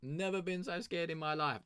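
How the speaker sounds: high, put-on scared voice; mock terror. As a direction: squeak it like you nearly died of fright. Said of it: "I was like".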